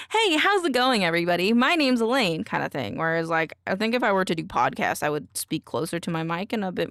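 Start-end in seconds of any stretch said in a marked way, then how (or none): 0.1-2.4 TikTok voice. Shown as a demonstration. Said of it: "My TikTok voice is definitely more of a".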